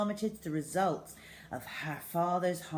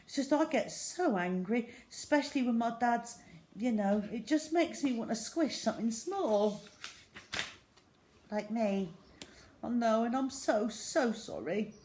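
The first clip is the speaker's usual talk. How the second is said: tearful; 5 semitones higher than usual. A narrator's reading. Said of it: "Tina was actually crying now".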